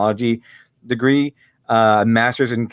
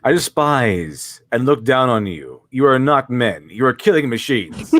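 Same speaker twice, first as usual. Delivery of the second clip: slow, lightly voiced drill sergeant; a hint of a stern drill instructor; slower than usual. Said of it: "Bob Ross being a drill sergeant".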